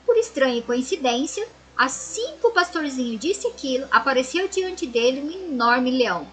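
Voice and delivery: storybook reading voice for the class; story narration. A narrator's reading. Teacher reading a fable to her pupils, storybook voice. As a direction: read the fable aloud to children.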